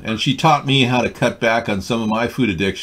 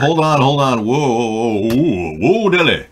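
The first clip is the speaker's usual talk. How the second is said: frantic protest; 3 semitones higher, 4 dB louder than usual. Real, not acted.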